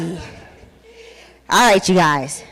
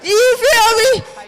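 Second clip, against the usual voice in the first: excited, raised hype to a dry crowd; hype shout; 5 semitones higher than usual. Real, not acted. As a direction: wake the room up, playful indignation. Hyping the crowd on stage.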